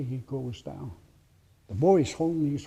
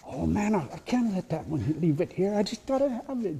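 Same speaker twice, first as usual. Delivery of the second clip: put-on greedy boy; 5 semitones higher than usual. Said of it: "He's getting greedy".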